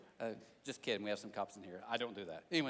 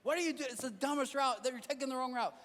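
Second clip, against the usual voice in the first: higher, louder mock scolding; yelling GPS; 6 semitones higher, 3 dB louder than usual. Imagined GPS scolding the driver over the route, mock yell. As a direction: play a GPS that snaps at a bad driver. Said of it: "It just yells at you".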